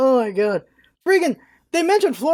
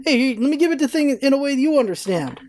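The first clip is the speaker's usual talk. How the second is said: normal talking voice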